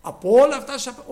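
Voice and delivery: mock devil's taunt. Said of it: "Έτσι άρχισε την κουβέντα".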